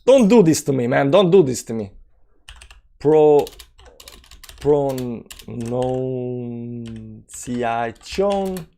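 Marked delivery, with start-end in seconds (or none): 3.0-8.7 very slow, softer, syllable by syllable; drawn-out pronunciation. Shown as a demonstration. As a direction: stretch each syllable of "pronunciation" way out. Sounds out the word syllable by syllable.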